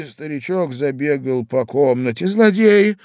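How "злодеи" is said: high, loud outcry; lady shouting. A narrator's reading. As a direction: cry out in outrage. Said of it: "кричала дама". (возмущённый крик дамы)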